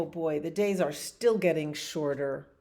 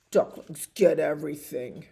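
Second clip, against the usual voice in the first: whiny pigeon; 6 dB louder than usual. Acted. Pigeon whining about duckling.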